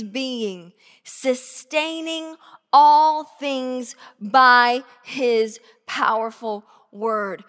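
slow, deliberate reading; slow solemn verse reading; scripture reading. Acted. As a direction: let each phrase land.

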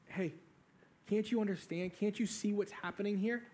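softly voiced, questioning plea; quiet appeal. One condemned criminal to the other, quiet appeal.

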